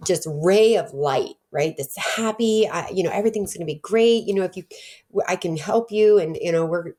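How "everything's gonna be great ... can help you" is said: lightly raised, upbeat helper voice; a hint of bubbly cheer, reassuring; bubbly cheerful helper. Caseworker Gina cheering up a struggling mother, lightly bubbly. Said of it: "here comes this really bubbly personality".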